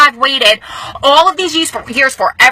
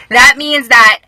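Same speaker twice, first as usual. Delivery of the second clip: fighting back tears; 3 semitones higher, slower than usual. Real, not acted. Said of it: "I'm trying not to cry".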